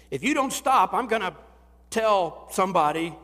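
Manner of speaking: put-on playful parent shouting at kids; mock dad yell. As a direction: bark it like an exasperated father. Dad scolding kids in story.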